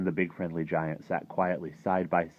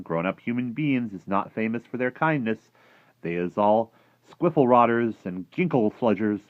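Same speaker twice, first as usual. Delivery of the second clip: slightly raised, loud giant explaining; a hint of a fretful giant; lightly voiced friendly giant, worried; 6 semitones higher, 8 dB louder than usual. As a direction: lightly play the giant protesting.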